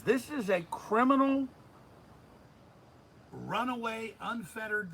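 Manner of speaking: high, loud indignant declaration; outraged quote. Retold or imitated. Host repeating the judge's charge on air, high and loud indignation. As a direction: pitch it up and lean on each accusation. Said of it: "And says".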